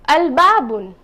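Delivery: "al-babun" with a clear lam before ba; pronounced lam. Shown as a demonstration. Teacher modelling a moon-letter word with clear lam. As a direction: sound the l fully in "al-babun". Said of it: "I will say".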